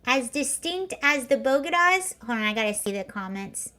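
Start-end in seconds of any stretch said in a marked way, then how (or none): 0.1-2.1 "Bogotas" as BOH-guh-dahz, rising at the end; mimicked mispronunciation. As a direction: echo her line as a puzzled question. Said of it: "That was her saying Bogotas".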